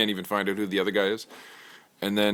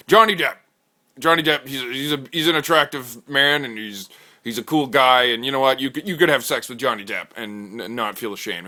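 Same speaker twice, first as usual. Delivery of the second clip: hyped bro pitch; 4 semitones higher, 6 dB louder than usual. Acted. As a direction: sell it like a gung-ho bro. Host makes pitch.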